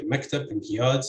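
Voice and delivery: mektab stressed on MEK; stress on first heavy syllable. Shown as a demonstration. Linguist demonstrating an example word, first heavy syllable of mektab stressed. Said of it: "the first heavy syllable ... is stressed".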